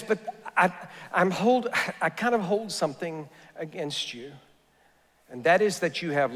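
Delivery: quiet, gentle voicing of Jesus; tender. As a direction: speak it softly, like a loving rebuke. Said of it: "he says so tenderly".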